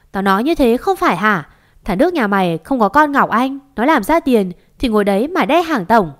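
mildly heated, pushing the key words; angry quarrelling. Acted. Mother-in-law and neighbour bickering at the door, indignant. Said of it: "đang cãi nhau với cô Giang hàng xóm".

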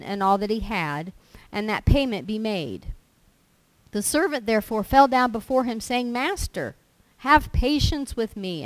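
loud, forceful scripture reading; preaching scripture. Acted. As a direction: proclaim the parable to the congregation. Reads the parable aloud with force.

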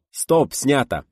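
high, loud wrap call; satisfied shout. A narrator's reading. Contented director ends the twentieth take, shouting. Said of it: "Довольный режиссёр крикнул".

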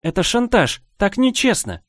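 high, laughing outrage; being tickled. Acted. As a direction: squeal it through laughter. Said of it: "волной безудержного смеха и веселья".

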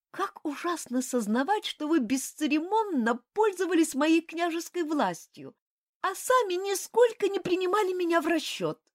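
высоким голосом, возмущённо; юная княгиня обличает; возмущённая княгиня. A narrator's reading. Обиженная княгиня. (княгиня возмущённо бросает упрёк)

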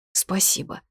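small muttered thanks, barely voiced; mumbled. A narrator's reading. Tearful wife thanking the mage in his embrace, mumbled. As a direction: mumble it as if into someone's chest. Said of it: "пробормотала в грудь мага".

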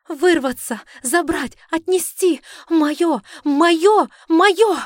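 high shouted words, building in force; possessed, escalating screams; spasmodic frantic outburst. Acted. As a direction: fire out each word like a painful spasm. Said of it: "Бессвязные слова вырывались болезненными спазмами".

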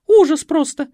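very high, loud indignant cry. Acted. Маменька возмущается сыну — высокий гневный возглас. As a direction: cry out in outrage. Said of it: "возмутилась маменька".

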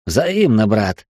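smirking. Acted. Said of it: "усмехнулся я".

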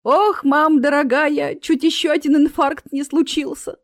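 high, loud startled wail; startled fright. A narrator's reading. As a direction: gasp it out, badly startled. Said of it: "Та от испуга выронила тарелку".

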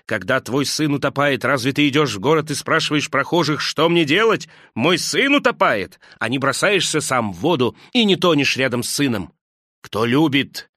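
angry outburst. Acted. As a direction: lash out at them with bitter passion. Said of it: "гневно обрушился".

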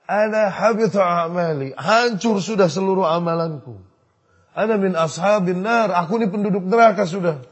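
mildly despairing, as if crying; tearful lament. Retold or imitated. Thabit telling Sa'ad his deeds are lost, mildly tearful. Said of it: "Sambil menangis".

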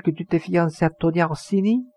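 high, sustained accusing question; outraged questioning, held high to the end; indignant challenge. A narrator's reading. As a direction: confront the lover, voice pitched right up. Margaride confronts Sandri about engagement.

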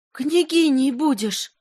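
high, slow otherworldly cry; a fever spirit crying through her; seething shrieking spirit. Acted. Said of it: "опять вскрикнула горлинка".

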